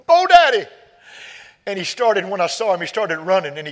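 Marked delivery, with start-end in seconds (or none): 0.0-0.7 put-on loud, high-pitched child's holler; high imitated yell; imitated boy hollering. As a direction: call out like an excited boy across a lot. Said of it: "hollering at me".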